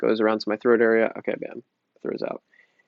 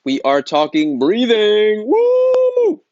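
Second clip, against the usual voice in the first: loud, slow hype ending in a high whoop; mock-hyped announcer shout; hyped-up intro; 10 semitones higher, 7 dB louder, much slower than usual. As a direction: pump the crowd up, then whoop. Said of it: "All right, in all seriousness".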